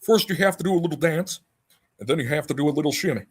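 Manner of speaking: lightly voiced rock and roll singer, fast and upbeat; a hint of a rock and roll king hamming it up; impression of a famous singer. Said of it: "that was my singer impression".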